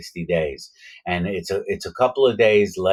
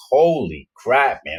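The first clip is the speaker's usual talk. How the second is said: slow, higher-pitched drawn-out amazement; awed exclamation; 5 semitones higher, slower than usual. Retold or imitated. Inmate marvelling at his huge new friend, awed. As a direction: stretch it out in retold awe. Awed at how big he was.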